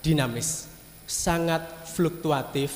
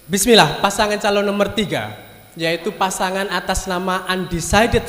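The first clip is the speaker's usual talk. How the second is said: louder, higher announcer voice; loud announcement; 3 semitones higher, 6 dB louder than usual. Acted. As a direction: proclaim it like a ceremony. Mock grand announcement of candidate.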